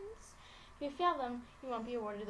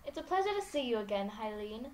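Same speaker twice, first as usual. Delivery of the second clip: campy drag queen; 3 semitones higher, 7 dB louder than usual. Acted. Voicing Laura the showy mistress.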